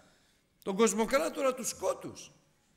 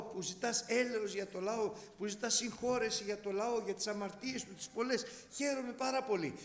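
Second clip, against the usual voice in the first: voicing God. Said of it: "του λέει πράγματα".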